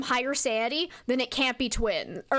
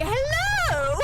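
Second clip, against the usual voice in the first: ghost greeting; 12 semitones higher, 4 dB louder than usual. Retold or imitated. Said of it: "it was like".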